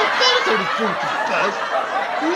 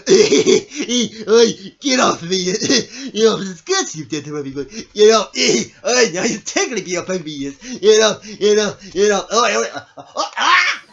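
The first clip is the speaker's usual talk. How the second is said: loud, ticklish yelps; playful protest; 5 dB louder than usual. Acted. Mobbed by an affectionate dog, loud giggly protest. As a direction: fend off an overexcited dog noisily.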